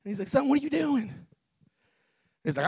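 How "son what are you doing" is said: higher-pitched, lightly voiced dad; questioning dad. Dad to his giddy son at home, mildly puzzled. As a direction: lightly act a father checking on his son.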